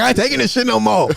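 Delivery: defiant, done with it; sassy mock outburst; sassy substitute. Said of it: "She's like".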